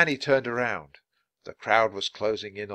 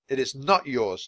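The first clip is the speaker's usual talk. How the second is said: furious; 3 semitones higher than usual. Acted.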